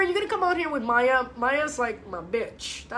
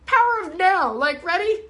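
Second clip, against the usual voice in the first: higher, louder disbelief; a rising, louder exasperated outburst; exasperated quote; 5 semitones higher, 3 dB louder than usual. Retold or imitated. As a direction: swear it out, fed up. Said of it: "and I'm like".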